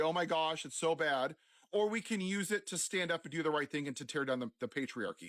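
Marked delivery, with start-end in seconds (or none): none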